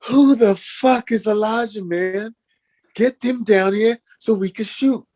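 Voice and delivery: impatient rant at the crew; retold co-star angrily demanding Elijah; angry demand. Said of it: "So he says".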